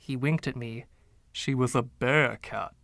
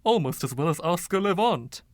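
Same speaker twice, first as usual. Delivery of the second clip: lightly voiced flamboyant old charmer, a touch higher; Freddie; 5 semitones higher than usual. Freddie's voice in narration.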